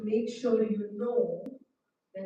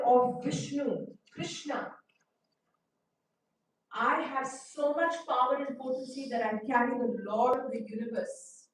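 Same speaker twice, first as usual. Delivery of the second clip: raised, louder proud challenge; arrogant boast; 3 semitones higher, 3 dB louder than usual. Retold or imitated. Garuda boasting to Indra of his power, arrogant. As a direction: sneer down at him as the great carrier of the Lord.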